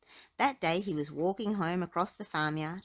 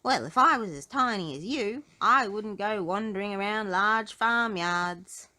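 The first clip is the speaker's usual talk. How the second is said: gentle advice; 2 semitones higher, 7 dB louder than usual. A narrator's reading. Mister Strong gently advises.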